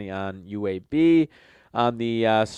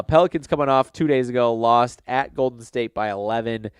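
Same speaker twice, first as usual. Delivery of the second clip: nasal voice from a head cold. Real, not acted. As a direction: talk through a stuffy nose. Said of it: "excuse my, uh, nasally voice here as I'm still recovering from, uh, a little bit of a cold".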